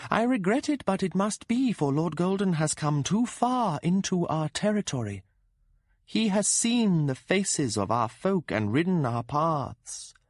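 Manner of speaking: voce alta e distante, promessa lenta e suadente; la cavalcatrice del gatto rassicura il suo amato, lenta e possessiva; voce della donna gatto. Acted. Cat-rider woman speaks.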